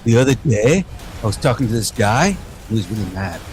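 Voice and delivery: "day" lifted at the end, Canadian style; light echo of the Canadian rise; mock Canadian storytelling. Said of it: "We talked about the Canadian rise".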